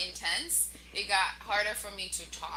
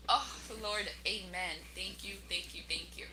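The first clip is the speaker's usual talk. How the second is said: soft whispered grateful prayer; whispered thanks; 4 dB quieter than usual. Retold or imitated. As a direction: breathe your thanks to God. Thankful prayer during contractions.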